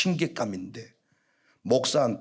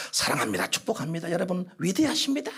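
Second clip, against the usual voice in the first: softer, mildly sweet guest-preacher voice; mock flattering blessing; 4 dB quieter, faster than usual. Revival speaker telling the congregation they are great, mock gentle blessing. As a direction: imitate a preacher gently buttering up the crowd. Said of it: "이게 아니고".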